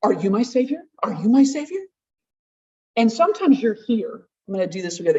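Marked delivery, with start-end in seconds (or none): 0.0-0.8 desperate parent. Retold or imitated. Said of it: "the desperate parent going". 1.0-1.8 second "Are you my savior?" pitched higher, stressing "my"; pleading more on "my"; desperate parent, pleading harder. Retold or imitated. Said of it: "the desperate parent going".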